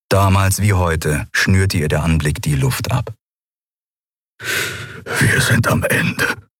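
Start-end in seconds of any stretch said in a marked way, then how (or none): 4.4-6.5 slow, drawn-out whisper. A narrator's reading. Keru admitting they are finished, a slow whisper. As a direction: whisper it slowly, without voice. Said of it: "flüsterte Keru".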